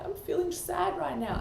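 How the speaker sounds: put-on a young boy telling mama he's sad; little son's voice. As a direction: son telling his mother, in a high child's voice. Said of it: "he said to me".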